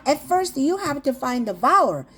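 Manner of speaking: slow, spelled-out English for learners; teacher slowly models English to kids, drawn out; slow English instruction. Shown as a demonstration. Very slow teaching English. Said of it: "L 발음을 좀 중요한데요".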